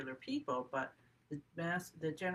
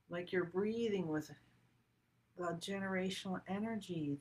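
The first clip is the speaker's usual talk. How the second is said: guided meditation; 2 semitones higher than usual. Acted. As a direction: breathe it out slowly and gently. Leads a breathing meditation.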